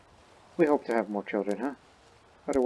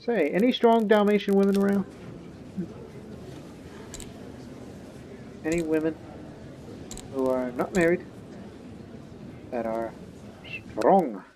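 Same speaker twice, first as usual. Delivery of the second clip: put-on light Russian accent; 6 semitones higher than usual. Ruler seeking a strong wife, in a light Russian accent. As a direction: play a ruler asking around in a touch of Russian accent. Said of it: "I did a little Russian there".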